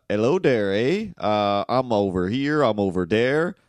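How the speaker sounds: loud, hammed-up French Canadian accent; crazy French Canadian. Comic playing an easterner over here, French Canadian accent. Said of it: "crazy French Canadian".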